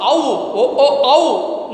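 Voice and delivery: "ow" as a rounded, closed au; wrong sound demo. Shown as a demonstration. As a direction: show "ow" starting from o instead of ah. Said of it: "there is no ow sound".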